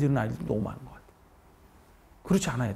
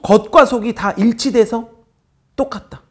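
loud, slow and higher, each word pressed; emphatic slow declaration; 7 semitones higher, 10 dB louder, slower than usual. Real, not acted. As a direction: drive the point home to the class. Teacher emphasizing sincerity.

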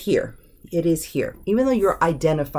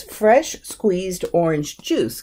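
natural order demo; much slower than usual. Shown as a demonstration. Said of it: "it wouldn't sound right".

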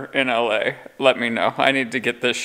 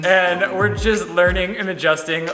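newsreader voice for the vlog outro; news anchor voice. Acted. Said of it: "Like a news anchor".

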